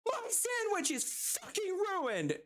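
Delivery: high, mocking voice of the furious customer; angry customer. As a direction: whine it like an entitled customer falling apart. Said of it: "and she just goes".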